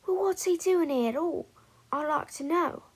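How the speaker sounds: put-on prying old witch; gossiping witch.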